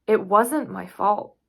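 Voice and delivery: slow, forceful self-defence; insistent. Acted. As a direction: protest your innocence out loud. Insists on innocence, then repeats softer.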